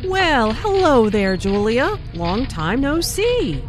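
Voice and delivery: mock-surprised hello with hello stressed, slowed; surprised greeting. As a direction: greet an old friend out of the blue. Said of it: "Notice the emphasis on hello".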